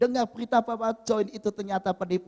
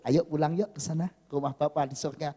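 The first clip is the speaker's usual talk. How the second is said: gentle invitation; 3 semitones lower than usual. Retold or imitated. Jesus inviting a believer home to heaven, gentle. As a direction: invite tenderly, voice lowered and softened.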